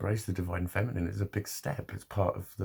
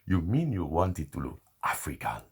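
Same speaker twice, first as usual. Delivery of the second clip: light imitation of an African accent, pitched lower; 4 semitones lower than usual. Braider asks if he wanted to look African, light African accent. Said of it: "When I do impressions of them".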